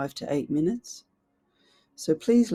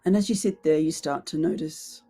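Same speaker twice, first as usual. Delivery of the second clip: guided visualization. Real, not acted. Coach leading listeners into their imagined boardroom, unhurried guided meditation. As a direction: guide them gently inward, leaving space after each phrase.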